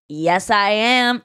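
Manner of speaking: slow, measured retold reply; understated claim. Comedian owning up to a stranger in line, understated. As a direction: say it slowly, as if barely addressed to him. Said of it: "I just kind of said it to him".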